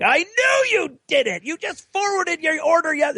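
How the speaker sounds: squeaky high mock of Dave gloating; mocking high teasing voice. Dave gloating at his friend, high mocking voice. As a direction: tease him in a high sing-song.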